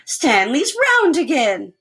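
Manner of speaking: high, loud, slow wonder; amazed. Acted. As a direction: marvel at it slowly. Mother amazed at round son.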